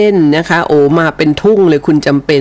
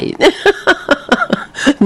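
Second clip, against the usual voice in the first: หัวเราะ 1; 12 semitones higher, 3 dB quieter than usual. Real, not acted. ขำเรื่องอายุรุ่นอีที.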